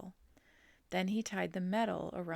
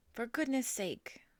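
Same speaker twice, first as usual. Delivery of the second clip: higher, louder exasperated bellow; drenched farmer bellowing; 6 semitones higher, 4 dB louder than usual. A narrator's reading. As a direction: bellow at the soaking. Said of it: "bellowed Mister Zuckerman".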